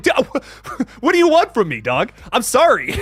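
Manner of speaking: laughing helpless protest. Retold or imitated. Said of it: "I'm like".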